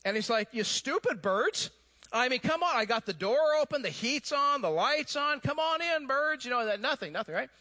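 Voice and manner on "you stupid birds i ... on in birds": exasperated farmer. Acted. Farmer yelling at stubborn birds, exasperated and rising. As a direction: scold the birds, climbing higher as patience runs out.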